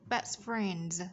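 "friends" finished on a voiced z; teacher modelling "Best friends" with its z ending; Z ending sound. Shown as a demonstration. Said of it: "Z ending sound".

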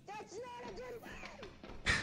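very slow, high drawn-out whine. Pretend. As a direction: stretch every word slowly.

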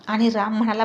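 usual speaking voice

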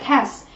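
"cast" with a voiceless s added at the end; final S sound. Shown as a demonstration. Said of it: "chúng ta cũng đọc là". ("cast" đọc đuôi là âm s)

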